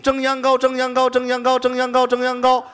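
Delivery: rapid recitation. Shown as a demonstration. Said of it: "一上来就得背".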